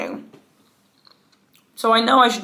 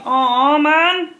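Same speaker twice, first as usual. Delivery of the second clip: disappointed; 7 semitones higher, 5 dB louder than usual. Real, not acted. Disappointed at missing underwear.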